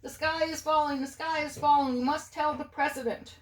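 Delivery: high, frantic hen voice; clucking hen. A narrator's reading. Chicken Licken panicking to her friends, high hen voice.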